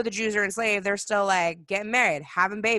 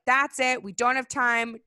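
louder, hurried commands; rally everyone to leave now; urgent Moses; 4 semitones higher, 6 dB louder than usual. Retold or imitated. Moses hurrying the Israelites out, loud and urgent. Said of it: "Moses is like".

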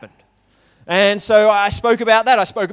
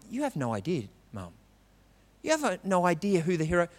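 put-on kid teasing; 3 semitones lower, 13 dB quieter, faster than usual. Kid teasing mum in story.

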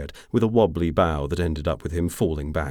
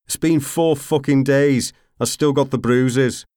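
growl; 9 semitones higher, 8 dB louder than usual. A narrator's reading. Growled reply from the corner.

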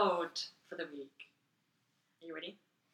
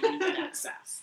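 mock sassy scold; 11 semitones higher, slower than usual.

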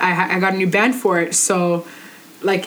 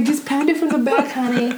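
higher-pitched Southern twang; Southern accent; 5 semitones higher than usual. Acted. Host imagining the big guy in bed, mock Southern twang. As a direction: lay on a touch of Southern twang. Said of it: "Where's he from, Virginia?".

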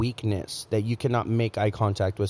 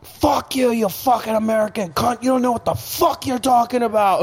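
retold angry outburst; 10 semitones higher than usual. British bar owner yelling at the American in Laos, mock fury. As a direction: spit it out like the furious bar owner. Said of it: "he was like".

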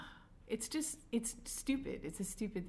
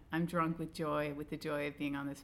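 sarcastic; 3 semitones lower than usual. Pretend. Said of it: "Holy cow".

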